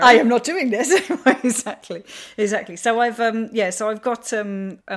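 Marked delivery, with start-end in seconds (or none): 0.0-0.9 higher, louder mock refusal; a hammed-up huff, nose in the air; mock flat refusal. American readers rejecting gritty British crime, mock huffy.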